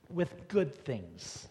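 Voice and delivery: good drawn out slow and leaned on; slow down and land hard on "good"; stress on good. Shown as a demonstration. Pastor stressing "good" to the congregation, slow and weighty. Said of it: "But I want to focus more on".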